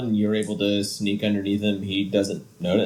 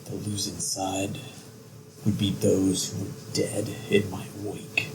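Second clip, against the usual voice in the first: softer, cold whispered threat; menacing whisper; 5 dB quieter than usual. Acted. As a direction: hiss it out like a villain.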